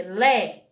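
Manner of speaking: LÉ with open e; LÉ as with an acute accent; open vowel. Shown as a demonstration. Teacher explaining the accent to parents, LÉ with open e. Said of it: "é o som do é com um acento agudo".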